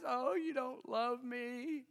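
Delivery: a touch of whiny pleading; imitating the wife whining at her husband to tell the riddle; mock whining. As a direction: whine it lightly like a hurt new wife. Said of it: "She cries".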